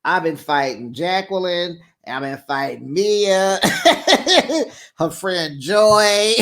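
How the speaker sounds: half-laughing complaint; laughing retelling. Retold or imitated. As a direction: laugh through the list. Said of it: "She's like".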